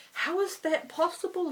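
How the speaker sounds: put-on high, incredulous Indian-accented question; heavy Indian accent. Scam caller doubting she has no internet, mock Indian accent. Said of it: "his very heavy Indian accent".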